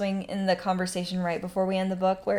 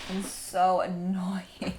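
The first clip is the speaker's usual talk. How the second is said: slow, breathy whispered aside; mock whisper; much slower than usual. Reader whispers her gripe about tagging along. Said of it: "And I was like".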